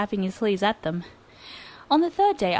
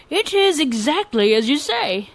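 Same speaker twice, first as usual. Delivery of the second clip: lazy drawl; 5 semitones higher, 5 dB louder, slower than usual. Acted. Taro answers.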